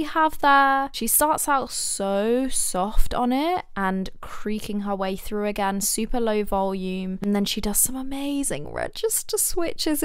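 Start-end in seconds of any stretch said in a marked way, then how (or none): none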